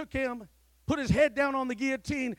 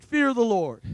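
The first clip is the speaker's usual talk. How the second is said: "Fear the Lord." said louder, with conviction; emphatic; 7 dB louder than usual. Shown as a demonstration. Preacher leading the church to say "Fear the Lord.", with conviction. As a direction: say "Fear the Lord." like you mean it. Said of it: "Say it like you mean it".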